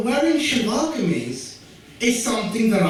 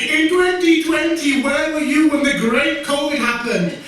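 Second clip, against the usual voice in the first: butcher's question; 9 semitones higher, 5 dB louder than usual. Retold or imitated. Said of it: "your butcher said to you".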